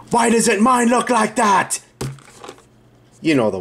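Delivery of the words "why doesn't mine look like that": high, drawn-out cartoon wail of frustration; Homer Simpson. Quoting a cartoon dad comparing his botched build, exasperated high wail. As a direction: wail it slowly, far above your usual pitch. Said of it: "explain that Homer Simpson thing".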